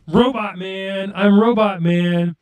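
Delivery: slow, even robot voice. Pretend. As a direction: play it like a robot. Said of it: "Joe sounds like a robot".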